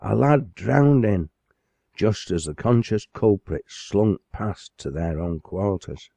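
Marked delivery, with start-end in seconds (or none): 0.0-1.3 alarmed cry. Acted. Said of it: "with the alarm of".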